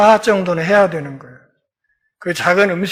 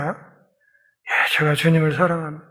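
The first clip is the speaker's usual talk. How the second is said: a whispered yes, then softer quick words; hushed hurried answer; 3 semitones lower, 6 dB quieter than usual. Acted. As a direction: Peter answers the second question in a hushed rush. Peter answers again, shaken.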